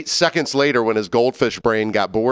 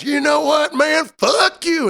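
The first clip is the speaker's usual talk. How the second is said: put-on drunk guy snapping; slower than usual. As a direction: spit it out like a belligerent drunk.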